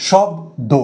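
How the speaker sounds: "শব্দ" split into shob, do; two syllables. Shown as a demonstration. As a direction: say "শব্দ" as two separate beats. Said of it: "এটার দুটো দল". ("শব্দ" দুই দলে ভেঙে উচ্চারণ)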